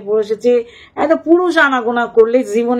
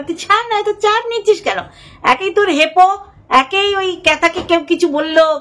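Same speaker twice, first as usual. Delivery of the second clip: high, teasing scold; mocking scold; 6 semitones higher than usual. Scolding the toxic supporter, high and mocking. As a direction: needle her with high mockery.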